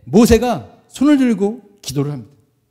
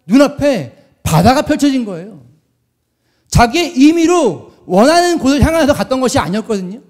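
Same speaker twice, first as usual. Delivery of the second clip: projected, high-energy sermon delivery; emphatic preaching; 3 semitones higher than usual. Real, not acted. Preacher retells the Exodus to the congregation, emphatic preaching.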